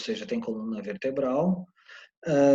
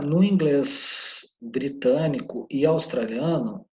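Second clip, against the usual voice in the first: ordinary talk, nothing marked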